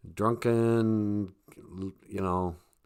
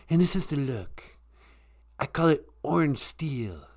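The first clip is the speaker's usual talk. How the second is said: Donald Trump impression. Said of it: "That's not a very good, uh, impersonation".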